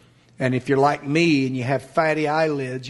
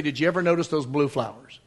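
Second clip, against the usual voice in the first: gentle questioning. Acted. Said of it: "God would say".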